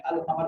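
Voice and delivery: अल कमर with the L of अल sounded; अल कमर, L not merged into the next letter; lam pronounced. Shown as a demonstration. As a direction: say अल कमर, keeping the article's L audible. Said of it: "इसमें अलिफ लाम pronounce होगा".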